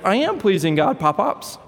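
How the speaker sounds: put-on high, defiant little girl; little girl insisting. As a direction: stand your ground to the grandpa. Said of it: "And then she says".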